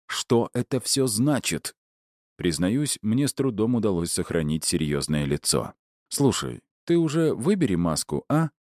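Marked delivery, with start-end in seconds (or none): 0.1-1.7 high, slow, tense questioning; hissed demand. A narrator's reading. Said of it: "прошипел он". 6.1-8.5 light, higher-pitched friendly needling; friendly reply. A narrator's reading. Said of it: "дружелюбно ответил я".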